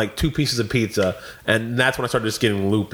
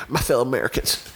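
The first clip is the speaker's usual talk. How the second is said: George Bush impression. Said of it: "turned to George Bush".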